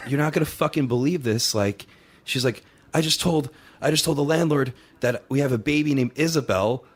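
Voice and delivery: lightly acted astonished confession; retold disbelief. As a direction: imitate a wife breaking unbelievable news. Retold wife phoning with shocking news.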